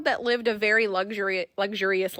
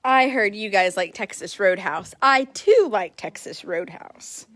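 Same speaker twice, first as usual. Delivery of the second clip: horse voice; slower than usual. Retold or imitated. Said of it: "is what Bear is saying".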